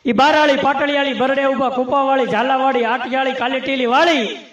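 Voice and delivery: rhythmic folk-bard recitation; chanted list poem in bardic style; verse recitation. Acted. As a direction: reel off the verse line by line in a driving rhythm. Recites verse on turban types.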